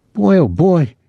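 high, delighted exclamation; excited. A narrator's reading. Claude to Tom after the winning fight, excited.

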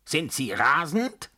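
high, drawn-out outraged question; indignant cry. A narrator's reading. Baron threatens the narrator with his stick, indignant cry. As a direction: cry it out slowly, pitched well up. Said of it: "schrie er und schwang seinen Stock".

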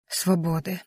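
very soft, broken whisper; tearful wife whispering to husband. A narrator's reading. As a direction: breathe the word into your hands. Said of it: "шепочу".

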